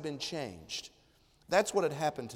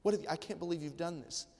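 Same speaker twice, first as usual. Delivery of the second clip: softer, overwhelmed gratitude at his feet; awed thanks; 6 dB quieter than usual. Retold or imitated. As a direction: whisper your thanks like you can't believe it. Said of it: "It's a posture of worship to say".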